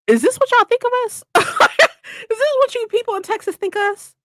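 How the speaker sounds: high, loud, laughing mock outrage; laughing disbelief. Telling Texans about their flags, laughing in disbelief. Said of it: "me and Mike were just like".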